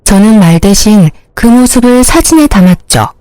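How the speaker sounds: ordinary delivery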